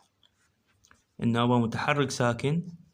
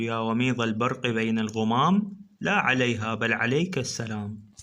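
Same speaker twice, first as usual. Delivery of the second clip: reciting a verse. Shown as a demonstration. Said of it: "ناخذ هذا البيت الشعري".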